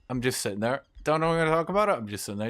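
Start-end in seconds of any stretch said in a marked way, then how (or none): 1.0-1.9 high pleading. Retold or imitated. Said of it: "He's like".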